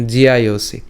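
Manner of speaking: জিআইওসি run together as one word, ji-ya-yo-si; জিআইওসি said as a joined Sanskrit word; pronunciation demo. Shown as a demonstration. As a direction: model জিআইওসি for learners, syllables joined. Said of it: "প্রথমে এর উচ্চারণটা কেমন হবে".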